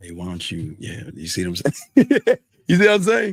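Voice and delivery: very deep voice dropped low, swooping and rising. Showing the levels of a character voice: very low deep voice. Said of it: "I go even lower".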